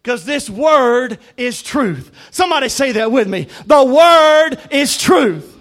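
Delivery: drawn-out, ringing declaration to the congregation; emphatic preaching. Acted. Preacher urging the church to repeat it, emphatic preaching. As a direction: preach it loud, stretching the key words.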